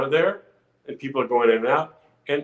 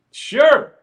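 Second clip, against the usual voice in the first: eager yes; 11 semitones higher, 8 dB louder than usual. Retold or imitated. Asked if he dances.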